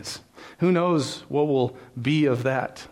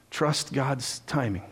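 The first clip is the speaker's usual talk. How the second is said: gentle plea; 4 dB quieter, much slower than usual. Real, not acted. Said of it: "closing exhortation".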